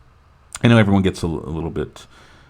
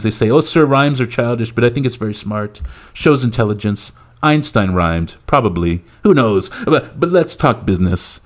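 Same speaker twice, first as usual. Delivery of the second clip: higher-pitched parody of gushing praise; mock presidential rambling enthusiasm; Donald Trump; 4 semitones higher than usual. President applauding the leprechaun's rhymes, parody boast. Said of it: "Trump says, clapping".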